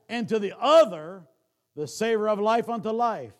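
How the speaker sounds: loud, ringing scripture reading from the pulpit; preaching. Acted. Preacher booming scripture to the congregation, loud. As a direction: proclaim the verse with full force.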